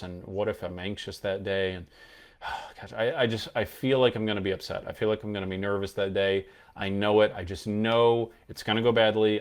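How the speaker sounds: rushed, nervous inner monologue; a nervous person talking themselves into panic; anxious self-talk. Shown as a demonstration. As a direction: spiral into worry as you speak. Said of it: "They'll usually go".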